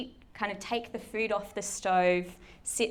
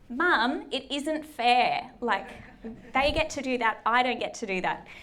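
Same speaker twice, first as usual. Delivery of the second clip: put-on whining child; 3 semitones higher, 3 dB louder than usual. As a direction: whine it out like a hard-done-by sibling. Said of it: "can you tell I've had practice saying that".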